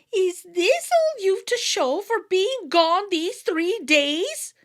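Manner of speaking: wife voice, unimpressed; scolding wife. A narrator's reading. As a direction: give him a sharp disbelieving scold. Wife scolds returning husband.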